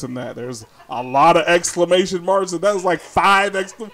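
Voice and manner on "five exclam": ordinary talk, nothing marked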